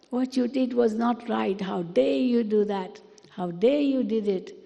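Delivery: a touch of anger, pressing on dare; mild anger demo. Shown as a demonstration. Scolding someone who did wrong, mildly angry. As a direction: scold them, half-hearted angry tone. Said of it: "I can say it in a very angry tone".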